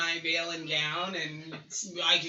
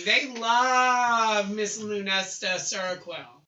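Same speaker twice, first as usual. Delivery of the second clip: diva voice; 6 dB louder than usual. Acted. Diva bragging.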